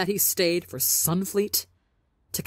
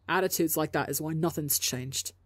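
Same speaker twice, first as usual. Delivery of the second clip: evenly. Acted. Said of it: "Tommy says, evenly".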